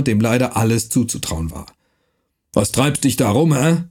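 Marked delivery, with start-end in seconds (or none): 2.5-3.8 rough dialect voice, lightly done; gruff Franconian watchman. Acted. Night watchman threatening the stranger, gruff dialect. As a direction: bark it like a mercenary guard.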